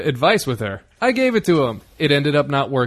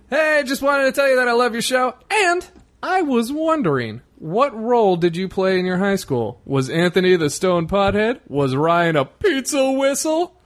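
high reading voice; 6 semitones higher than usual. Acted. Reading fan email aloud.

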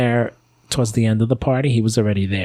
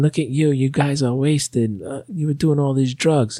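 mildly mocked maternal scolding, pitched up; mother yelling; 5 semitones higher than usual. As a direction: imitate an accusing mom without raising the volume. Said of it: "she starts yelling at us".

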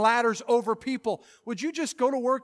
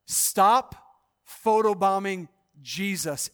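punchy repeat; 2 semitones lower, slower than usual. Shown as a demonstration. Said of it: "He said it like this".

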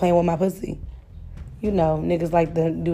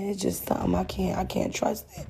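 quiet retold confession; 6 dB quieter than usual. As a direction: let it drop to almost nothing by the end. Boyfriend confessing he can't trust her.

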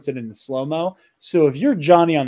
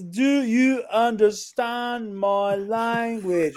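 mock voice; 7 semitones higher, 3 dB quieter, much slower than usual. Mock foreign gamer voice quote.

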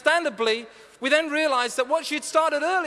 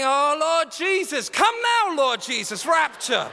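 desperate mock prayer; 3 semitones higher, slower than usual. Dad in the bathroom begging Jesus for the rapture, panicked. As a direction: beg the Lord for rescue, half joking. Panicked dad's inner plea.

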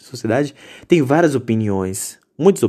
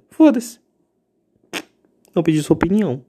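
defiant outburst; 6 semitones higher than usual. Real, not acted. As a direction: spit it out in defiance. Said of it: "ranting at listeners".

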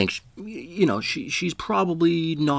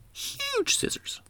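whisper; 10 dB quieter, slower than usual. Retold or imitated. Awed about the scissors.

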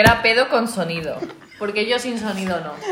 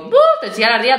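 louder teasing buh then line; mock disgusted mum; 3 semitones higher, 6 dB louder, much faster than usual. Mum teasing her kid about armpit smell, louder. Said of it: "le digo".

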